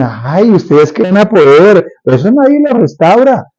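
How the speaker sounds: slow, scornful jeering, pitch climbing; mocking taunt. Enemies jeer at the wall builders, mocking. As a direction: drawl it out like a mocking enemy. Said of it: "Y se empiezan a burlar".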